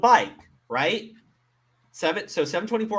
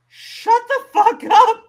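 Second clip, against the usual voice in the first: much louder, higher, slow shut the fuck up; furious shout; 14 semitones higher, 10 dB louder, slower than usual. Real, not acted. Host yelling at the mother's excuse, furious shout. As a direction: blast the excuse out of the room.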